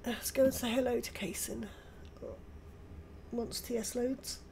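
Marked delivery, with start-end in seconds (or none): 3.3-4.4 words stretched by a yawn. Real, not acted. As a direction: talk through a yawn. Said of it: "Excuse me, yawning".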